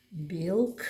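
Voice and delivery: Білк whispered, each sound drawn out. Shown as a demonstration. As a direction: whisper Білк to let them hear the sounds. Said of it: "І останній звук який?".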